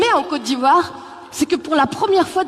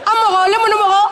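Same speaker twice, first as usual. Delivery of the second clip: higher, louder shouted name; calling out; 7 semitones higher, 5 dB louder than usual. Retold or imitated. Malian man calling out a friend, shouting. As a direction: call the name across the street.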